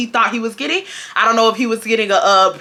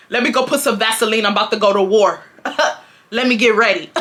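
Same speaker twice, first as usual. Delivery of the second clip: laughing. Retold or imitated. Retold reply, laughing through.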